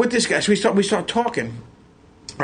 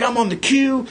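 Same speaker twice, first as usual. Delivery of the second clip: excited fan; 6 semitones higher than usual. Retold or imitated. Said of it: "this guy was a fan".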